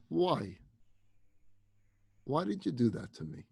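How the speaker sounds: soft, restrained question; calm voice. Acted. Shoved woman questioning the employee, calm. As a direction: ask it quietly, with mild hurt and long pauses. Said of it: "In a calm voice".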